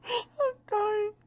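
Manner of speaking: high, helpless laughing squeal; dissolving into laughter; laughing so hard it turns to tears; crying with laughter. Real, not acted. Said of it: "I'm crying".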